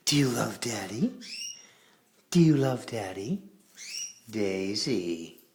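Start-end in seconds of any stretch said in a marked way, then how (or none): 0.1-3.4 hushed whispered coaxing. Real, not acted. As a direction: whisper the question to the bird. Coaxing pet.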